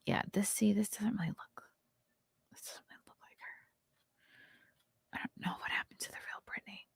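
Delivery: hushed, breathy secret aside; whispering. Real, not acted. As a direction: lean in and whisper it. Gossip aside, voice drops.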